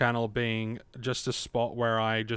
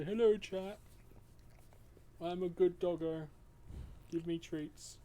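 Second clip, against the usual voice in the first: cartoon dog; 5 semitones higher, 11 dB quieter than usual. Voicing the dog's words.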